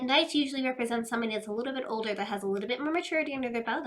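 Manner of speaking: fast, running the words together; hurried reading pace before slowing down; rushed. Real, not acted. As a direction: rattle it off quickly. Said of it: "I'm talking really fast".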